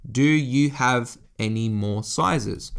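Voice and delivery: each word spelled out slowly to a clerk; slow, simple, clear. Retold or imitated. Asking a Japanese clerk for sizes, slow and deliberate. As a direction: tourist slowing right down so the clerk understands. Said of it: "keep your words very simple, very clear and precise".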